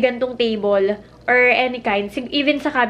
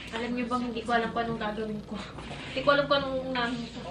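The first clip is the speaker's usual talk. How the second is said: fast; 4 semitones lower, 9 dB quieter, much faster than usual. Real, not acted. Rushed, quiet fast aside.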